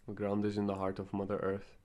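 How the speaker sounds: measured invocation with long pauses between phrases; guided meditation. Real, not acted. Guide opens a sacred space for listeners, calm guided meditation. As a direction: lead them gently through a meditation, phrase by phrase.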